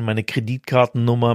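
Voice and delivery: ordinary delivery, nothing marked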